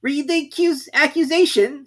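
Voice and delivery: very high, loud royal command; a pompous king giving orders; King ordering the herald to read; King's voice. A narrator's reading. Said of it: "said the king".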